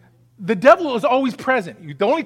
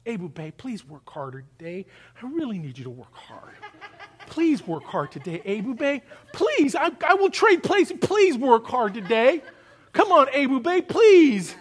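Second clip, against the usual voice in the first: a weak manager begging an employee; mock begging boss; 2 semitones higher than usual.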